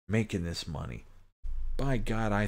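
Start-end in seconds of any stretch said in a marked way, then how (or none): 1.8-2.5 mocking outrage. Mock outrage at fast-food workers.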